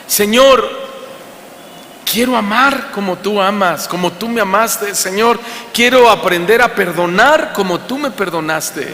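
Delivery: a sermon's closing prayer, earnest and lifted; heartfelt prayer. Acted. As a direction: pray it aloud for the congregation.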